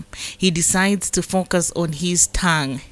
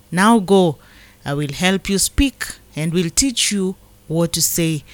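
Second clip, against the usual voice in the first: measured, solemn Bible reading; scripture reading. Acted. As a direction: read the verses as God's word to the flock. Reads scripture aloud.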